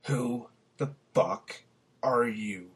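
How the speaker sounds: a threatening growl at a stranger. Acted. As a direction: spit it out slowly, then drop to a hiss. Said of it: "Ellis gazed down at himself and growled".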